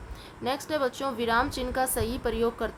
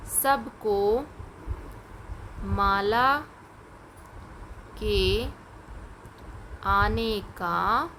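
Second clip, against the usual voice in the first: word by word, slowly, for copying; slow dictation; much slower than usual. Shown as a demonstration. Teacher dictates slowly to pupils writing answers. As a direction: spell out each word slowly. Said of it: "आप लिखेंगे".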